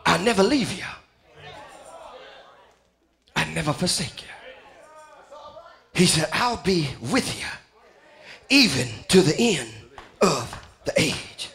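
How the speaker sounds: God reassuring the lost quietly; hushed promise. Acted. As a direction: drop to a near hush.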